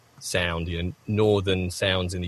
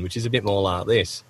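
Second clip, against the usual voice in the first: Yorkshire accent. Shown as a demonstration. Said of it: "the Yorkshire sound that I just did".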